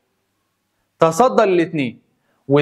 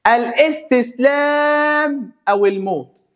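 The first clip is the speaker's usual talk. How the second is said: slow, drawn-out, higher threatening proclamation; menacing envoy; 8 semitones higher, much slower than usual. Acted. Mongol envoys threatening Qutuz, slow menacing proclamation. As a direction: deliver the ultimatum slowly like a menacing herald. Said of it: "بيقولوا له".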